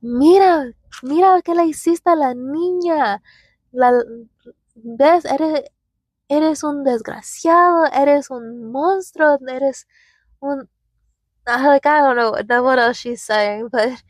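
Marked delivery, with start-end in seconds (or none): 0.0-10.7 higher-pitched retold scolding in Spanish; a lightly voiced mother berating the dad; mock angry mom calling him a monster; mom yelling in Spanish. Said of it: "My mom just goes".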